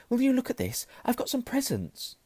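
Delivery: high, eager excitement; thrilled about the presents; excited. Acted.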